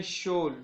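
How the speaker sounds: शोल drawn out slowly for emphasis; teacher's slow, stressed शोल; stressed syllable. Shown as a demonstration. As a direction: isolate शोल and stretch it. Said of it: "यहाँ पर stress दिया जा रहा है".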